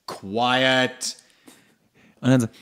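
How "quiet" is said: mock teacher command. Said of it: "Ich sag ihnen halt immer".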